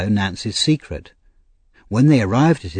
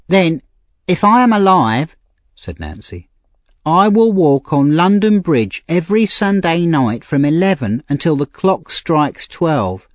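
put-on higher, pleading young woman; Nancy, street girl; 7 semitones higher, 3 dB louder than usual. A narrator's reading. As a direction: voice a desperate young thief girl. Nancy voiced.

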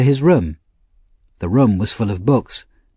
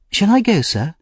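Oliver; 9 semitones higher than usual. A narrator's reading.

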